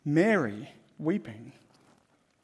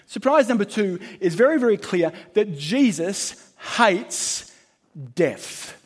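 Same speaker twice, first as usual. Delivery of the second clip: louder, higher, very stretched and slow; loud emphatic; 4 semitones higher, 6 dB louder than usual. Acted. Preacher announcing surprise two loudly, emphatic. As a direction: proclaim it to the back row.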